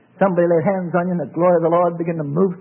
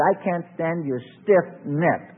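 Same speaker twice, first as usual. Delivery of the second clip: God speaking slowly; much slower than usual. Retold or imitated. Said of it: "He said".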